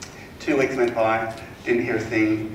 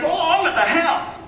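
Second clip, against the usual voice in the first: very high, slow affected voice; Philip Harding, wealthy client; 4 dB louder, slower than usual. Retold or imitated. Homeowner tells agent where he is, high and drawn out. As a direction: imitate the rich man, drawing it out. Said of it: "He goes".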